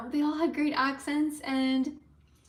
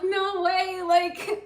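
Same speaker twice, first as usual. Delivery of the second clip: singsong; 6 semitones higher, 3 dB louder, much slower than usual. Retold or imitated. Disbelief at success.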